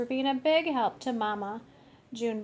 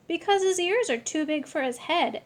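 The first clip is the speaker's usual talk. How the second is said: put-on girl voice; 6 semitones higher than usual. Sister teasing about ears.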